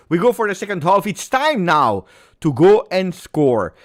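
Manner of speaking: rising loud call to start the half; excited kickoff call. Real, not acted. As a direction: pump up the fans for the restart.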